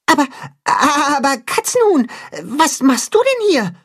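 high, surprised little goat voice; a baffled young kid asking; puzzled kid goat. Acted. Tacho surprised to find Katzenhuhn, high puzzled voice. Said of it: "fragt Tacho verdutzt".

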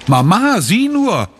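put-on high, eager child's call; excited call. A narrator's reading. Sophie to her mother about her find, excited high call. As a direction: call out to be noticed. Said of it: "ruft sie".

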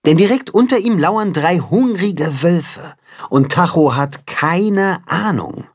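usual speaking voice

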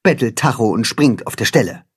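high, brisk commanding little hen; high cat-hen voice. A narrator's reading. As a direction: give orders like a small general. Katzenhuhn gives orders.

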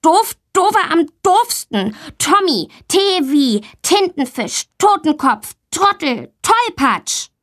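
put-on high, sing-song child's voice; a cheeky girl rattling off names; playful insults. Girl Valentina mocks Tommy, high and cheeky.

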